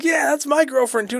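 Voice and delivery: high, smug heckler voice; mock heckler. Crowd guy heckling the boyfriend, in a high smug mock voice. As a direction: toss it back from the crowd. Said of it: "someone in the crowd's like".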